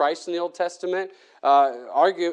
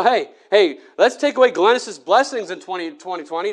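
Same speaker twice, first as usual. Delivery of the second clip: Satan taunting; 2 semitones higher, 4 dB louder than usual. Retold or imitated. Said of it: "Satan says".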